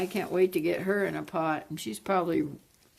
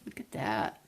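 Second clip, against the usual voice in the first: whispered awe; 9 semitones lower, 6 dB quieter than usual. Real, not acted. Awed under breath.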